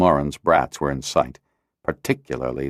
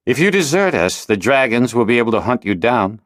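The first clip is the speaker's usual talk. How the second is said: warning; 6 semitones higher than usual. A narrator's reading. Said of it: "he warned".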